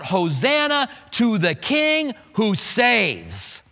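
slow, drawn-out mild acclamation; crying out. Retold or imitated. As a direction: proclaim it slowly, imitating a crowd's cry. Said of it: "cry out".

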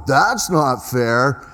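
slow, drawn-out whiny protest; mock complaint. Pastor mimics congregants griping, in a slow mock whine. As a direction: imitate a grumbling churchgoer, slowly. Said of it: "Some are going".

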